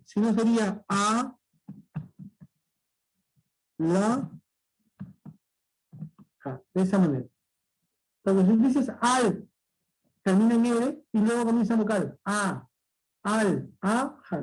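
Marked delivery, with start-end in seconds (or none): 0.1-6.6 "a, la, ja" split with long pauses; syllable by syllable. Shown as a demonstration. Teacher showing the correct split of alhaja. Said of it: "Entonces no sería al". 12.2-14.4 "al, a, ja" as a mistaken split; wrong syllable split. Shown as a demonstration. Teacher showing how alhaja must not be split. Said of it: "no, está mal".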